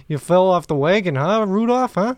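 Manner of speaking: teasing Canadian reindeer; put-on Canadian accent. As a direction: press him in a Canadian accent. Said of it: "very Canadian accent?".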